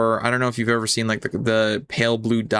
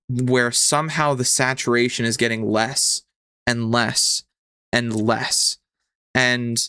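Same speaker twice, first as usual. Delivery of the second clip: measured narration with suspenseful pauses; game master scene-setting. Acted. Game master leads player into a fading world, measured suspenseful narration. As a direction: set the scene phrase by phrase, letting it hang.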